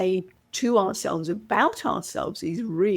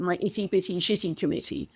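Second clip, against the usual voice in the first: crisp, carefully enunciated British accent; the phrase enunciated in a British accent; 3 dB quieter, faster than usual. Shown as a demonstration. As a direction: sound out each word in a British accent. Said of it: "said and enunciated with a British accent".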